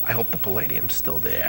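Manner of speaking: a hint of Burns's dry punchline; George Burns. Guest delivers George Burns's punchline after a pause, lightly voiced.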